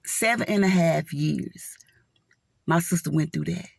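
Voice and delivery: whispered, heavy with memory; hushed whisper. Real, not acted. Emotional testimony about her sister.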